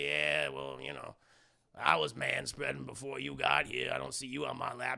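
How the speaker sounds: put-on low, dry old man comeback; deadpan the put-down; gruff old man.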